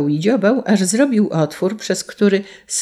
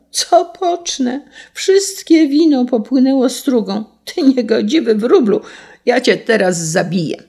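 high wail settling into a threat; distraught exclamation; 7 semitones higher, 3 dB louder than usual. A narrator's reading. Carter loses his wine and threatens the sparrow, distraught exclamation. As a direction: start helpless and high, then turn on the bird. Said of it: "wykrzyknął".

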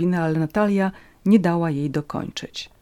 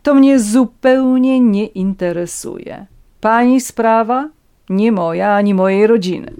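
loud, raised, emphatic disowning; scornful dismissal; 5 semitones higher, 8 dB louder than usual. A narrator's reading. Countess disowns Natalia's problem, scornful and forceful. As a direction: wash your hands of it haughtily.

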